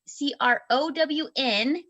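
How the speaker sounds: letter by letter, slowly; spelling it out. Real, not acted. Spells out the word.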